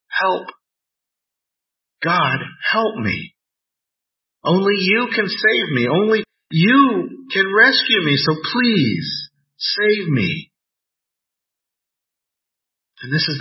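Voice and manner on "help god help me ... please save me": desperate plea to God, voice catching; pleading prayer. Shown as a demonstration. Preacher acting out a desperate prayer, pleading. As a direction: beg God for help like a drowning man. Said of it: "the prayer sounds like this".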